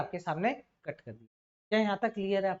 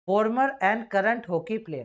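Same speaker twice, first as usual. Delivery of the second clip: slow reading aloud; 5 dB louder, much slower than usual. Shown as a demonstration. Teacher reads sentence aloud.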